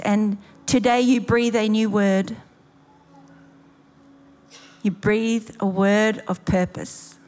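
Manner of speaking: measured prayer with long pauses; leading prayer. Real, not acted. Preacher praying to the Father for breakthrough, measured and unhurried. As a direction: pray aloud over them, unhurried.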